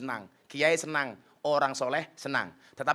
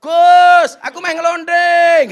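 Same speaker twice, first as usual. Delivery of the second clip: high, loud shouted call; hammed-up shout to the preacher; mock shout; 12 semitones higher, 18 dB louder, much slower than usual. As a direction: yell it out across the room, slow and high. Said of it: "Orang mungkin dia teriak-teriak".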